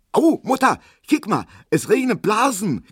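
put-on very high, loud child's squeal; squealing girl. Erna squeals to her mother about the rain bubbles. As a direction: squeak it out like a thrilled little girl. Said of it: "quietscht Erna".

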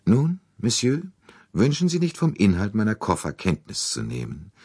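a touch of aristocratic disdain; haughty old princess. Acted. The princess coolly challenges Poirot to look through her luggage, imperious.

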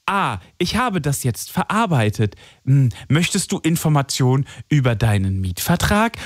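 lightly mimicked chatbot on the phone, pausing on its fillers; mock-helpful automated assistant; AI phone bot. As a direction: imitate a call-centre bot stalling with fillers. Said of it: "wenn die so tun".

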